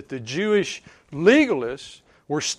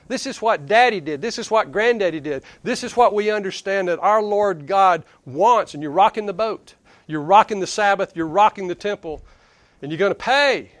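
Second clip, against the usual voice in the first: mildly heated, acted indignation; indignant protest; 3 semitones higher, 4 dB louder than usual. Offended legalists defending what Daddy and Granddaddy did, mock indignant. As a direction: voice affronted traditionalists, pressing each point.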